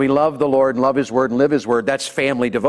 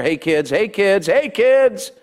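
calling out; 5 semitones higher, much slower than usual. Real, not acted. Preacher calling out to kids.

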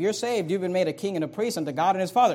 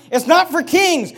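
slow, higher, louder with NOT leaned on; "It's not for kings" drawn out slowly, higher and louder, with NOT stressed; mother's warning; 9 semitones higher, 7 dB louder, slower than usual. Retold or imitated. Queen mother warning her son the king, slowly, higher and louder, stressing NOT. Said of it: "She's saying".

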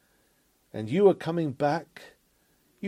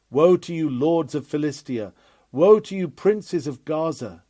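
prophetic woe cry; 5 dB louder than usual. Acted. Preacher's prophetic warning cry.

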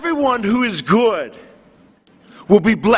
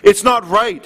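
mock indignation, slow and drawn out on how dare you; preacher imitating Stephen Fry scolding God, mildly indignant. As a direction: quote the atheist's outrage, measured and deliberate. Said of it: "he was indignant in the video".

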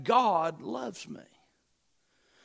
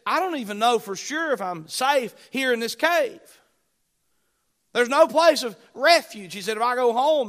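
anguished outcry; 6 semitones higher, 6 dB louder than usual. Acted. Preacher voices David in the cave.

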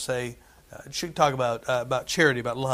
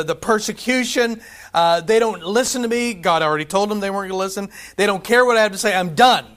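higher, louder, worn-out prophet complaining; exasperated Jeremiah; 4 semitones higher, 4 dB louder than usual. Retold or imitated. Preacher voicing Jeremiah quitting, exasperated and louder. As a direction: cry out that you've had enough.

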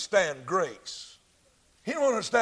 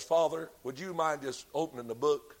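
gentle advocate; 3 semitones lower, 4 dB quieter than usual. Acted. Advocate gently answers before God.

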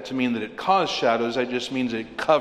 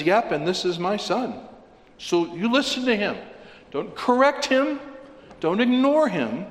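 lightly voiced God the Father; 7 semitones higher than usual.

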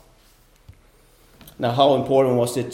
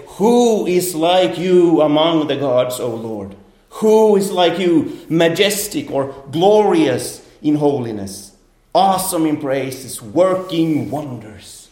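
exalted praise; 3 semitones higher, 3 dB louder, slower than usual. Acted. Preacher reading Moses' song with exalted slow praise. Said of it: "sing a song of praise where they say".

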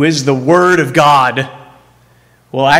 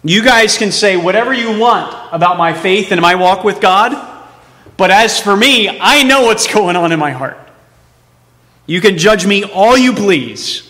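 insistent, raised declaration of conviction; emphatic; 4 semitones higher than usual. Acted. Preacher as Job professing faith to critics, emphatic. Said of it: "there's this emphatic nature".

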